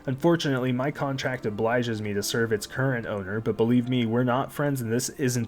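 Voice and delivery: proud, scolding guardian cat; haughty magic cat. Acted. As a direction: lecture the naive newcomer haughtily. Cat guardian lectures the owner.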